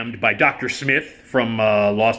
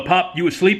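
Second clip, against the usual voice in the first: scared Lamont; 8 semitones higher than usual. Retold or imitated. Scared Lamont waking Fred.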